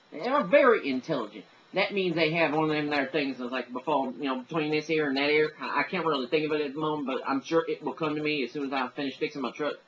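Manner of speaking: put-on dim-witted Southern good ol' boy; hammed-up Southern yokel; Southern accent. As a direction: put on a folksy Southern accent, losing the thread. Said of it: "the Southern accent tends to get tagged with".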